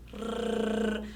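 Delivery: soft, sustained tongue trill "Rr"; trembling R. Shown as a demonstration. Teacher letting pupils hear how it trembles, soft trill. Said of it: "ele treme".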